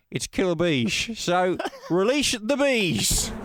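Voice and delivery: a hint of a Bob Franklin showman addressing the audience; half-hearted Bob Franklin. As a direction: playwright mildly extorting his audience, lightly put-on. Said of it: "attempting a Bob Franklin impression".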